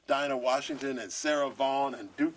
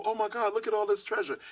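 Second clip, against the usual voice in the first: finding riches in the music's history; amazed; 8 semitones higher than usual. Pretend. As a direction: marvel at a found treasure. Imagined discovery of treasure.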